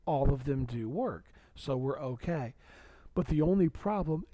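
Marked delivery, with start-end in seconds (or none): 3.1-4.2 yawning. Real, not acted. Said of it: "excuse me for yawning".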